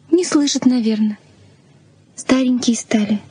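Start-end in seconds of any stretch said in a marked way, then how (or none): 2.2-3.2 hushed whisper at the door. Acted. Anna whispers to Tom at the door, hushed whisper. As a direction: breathe it so they won't hear.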